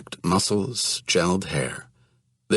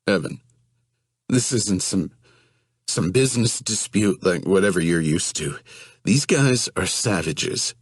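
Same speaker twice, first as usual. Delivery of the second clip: put-on whiny scared young man. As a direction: voice him as a frightened, whining guy. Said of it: "still pleading with him".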